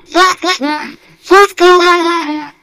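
laughing curse. Real, not acted. Laughing curses after failing.

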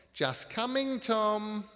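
loud, high barked call. A narrator's reading. Ebenezer calls through to Tom, barking loudly. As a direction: bark it out to someone in the next room. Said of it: "followed it with a barked".

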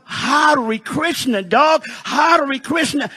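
slow, drawn-out mock swearing; mock angry cursing. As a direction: use it as a pretend curse, stretched out. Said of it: "No one gets mad".

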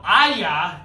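loud kiai shout; karate yell. Shown as a demonstration. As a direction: yell it out for the kids. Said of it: "I want you just to yell".

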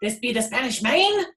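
loud, high pirate hail; hearty pirate shout; pirate yell. A narrator's reading. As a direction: call out from the boat like a head pirate. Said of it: "climbed out of the boat and yelled".

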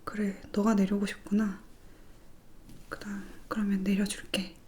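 soft unvoiced coaxing whisper; whispered to the hair. Whispering gently to the strands of hair, soft. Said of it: "하면서".

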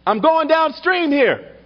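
high, slow mock yell for help; stretched-out mock shout from the river; retold yell. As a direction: call out across the water, drawn out. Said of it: "I yell out".

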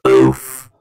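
deep, low Roblox oof; Roblox oof noise. Pretend. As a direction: drop the voice way down for oof. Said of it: "let me get a voice for an oof noise".

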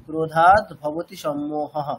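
slow chant, visarga left as it is; visarga unchanged. Shown as a demonstration. Teacher showing the unchanged visarga to students. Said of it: "ওখানে change করছি না আমরা".

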